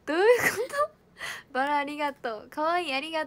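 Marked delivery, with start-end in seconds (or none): 0.1-1.5 泣きまね. Real, not acted. 理解できず嘆く.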